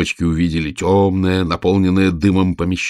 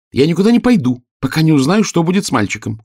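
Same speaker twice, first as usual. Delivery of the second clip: higher and louder, defiant; stubborn refusal; 10 semitones higher, 4 dB louder than usual. A narrator's reading. Girl defiantly refusing to leave, stubborn. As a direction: dig in your heels. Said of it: "упрямо тряхнула косичками Оля".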